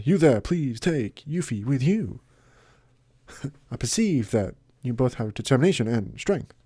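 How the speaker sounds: William Shatner impression. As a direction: pause dramatically between words. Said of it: "turning to William Shatner there".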